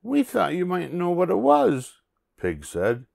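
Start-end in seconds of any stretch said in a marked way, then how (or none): 0.0-2.0 high-pitched little pig character; squeaky-high storybook pig; Pig's voice. Acted.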